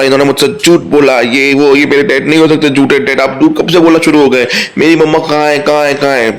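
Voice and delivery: put-on high, upset accusing cry of a hurt child; angry boy. Son confronts his father about his missing mother, high and angry. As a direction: demand the truth from your father, voice climbing.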